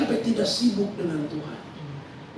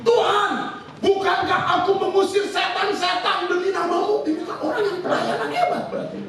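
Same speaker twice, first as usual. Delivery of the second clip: mock shouting plea; 8 semitones higher than usual. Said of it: "Mereka teriak begini".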